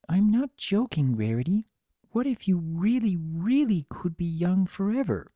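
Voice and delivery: lightly voiced earnest Fluttershy. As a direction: press the question, gently but insistent.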